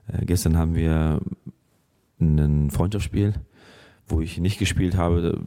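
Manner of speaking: rough, raspy sick voice; hoarse voice. Real, not acted. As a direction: speak with a sore, rough throat. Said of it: "die raue Stimme jetzt hat". (heisere, raue Stimme)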